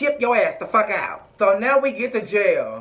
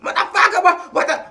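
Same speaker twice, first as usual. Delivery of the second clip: mock angry rant. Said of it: "Mercedes was like".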